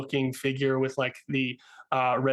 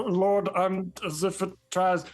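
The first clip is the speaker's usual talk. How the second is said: lightly raised, flustered recital; reciting title; 3 semitones higher than usual. Acted. Captain reciting the wizard's full title. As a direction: stumble through the long title. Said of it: "Say the whole thing".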